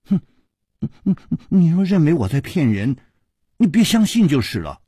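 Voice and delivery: cheeky, lightly giggled retort; giggling tease. Acted. Page boy giggles at doubting Hu Tiehua, giggling tease. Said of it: "那青衣童子笑嘻嘻地说".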